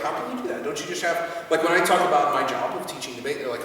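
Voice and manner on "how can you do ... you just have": much higher mock incredulous question; imitating outsiders. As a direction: play a baffled outsider. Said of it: "they be like".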